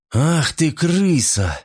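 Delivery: insult. A narrator's reading. Silvia insults Mot.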